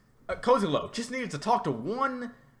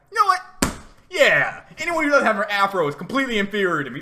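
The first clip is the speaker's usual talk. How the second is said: loud, hammed-up smug reply; mock arrogant agreement; 6 dB louder than usual. Speaker pretending to accept the flattery, loud smug mock reply. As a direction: puff up like a fool. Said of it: "And I'm like".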